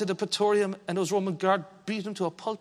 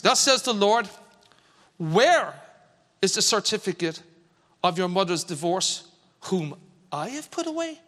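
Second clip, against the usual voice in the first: preacher voicing God with a gentle Irish accent. Shown as a demonstration. Preacher reads God's words to the church in an Irish accent. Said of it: "I'm gonna play the voice of God here. With an Irish accent".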